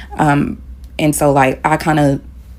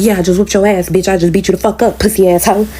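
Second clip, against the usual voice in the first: higher, mocking gloat; gloating taunt; 4 semitones higher than usual. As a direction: gloat over the beaten man. Girlfriend gloating after hitting.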